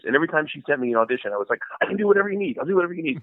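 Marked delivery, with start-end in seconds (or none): 1.8-3.2 higher, eager-to-please voice; overeager agreement. Retold or imitated. Actor answering his agent's requests, mock overeager. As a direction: imitate jumping at any job.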